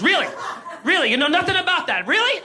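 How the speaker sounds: mock suspicious officer, pitch climbing on the last word; skeptical cop. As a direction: press him with doubt. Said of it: "He goes".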